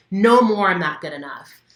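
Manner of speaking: loud release shout; demo shout. Shown as a demonstration. Coach showing how to shout loud while ripping paper. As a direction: shout it as you tear the paper. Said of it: "as you're ripping it".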